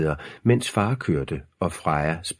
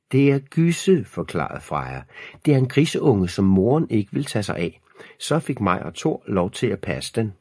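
eager little sister; 4 semitones higher than usual. Acted. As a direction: explain it eagerly, starting high. Voices little sister Freja explaining. (ivrig lillesøster med lys stemme)

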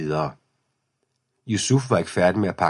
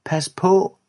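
much higher, sharp shouted warning; 12 semitones higher, 4 dB louder than usual. A narrator's reading. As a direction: yell it to stop him in time. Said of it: "råbte Camille". (skarpt advarselsråb)

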